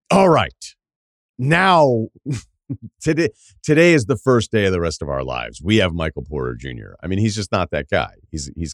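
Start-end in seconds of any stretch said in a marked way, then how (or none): 0.1-7.0 mock team announcement. Imagining Detroit announcing a trade to fans, mock proclamation. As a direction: make a hammed-up proclamation, dropping off by the end.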